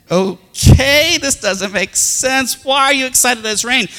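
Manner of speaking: high, slow bewildered questioning; dad, high-pitched and baffled, slowed right down; puzzled dad. Retold or imitated. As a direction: sound baffled by her joy.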